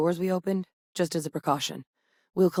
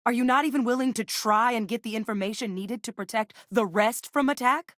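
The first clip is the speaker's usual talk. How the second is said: indignant plea; 5 semitones higher than usual. Acted. Challenges refusal to protect the rest.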